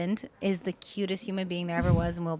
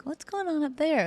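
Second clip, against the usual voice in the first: retold puzzlement; 9 semitones higher than usual. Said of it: "I was like".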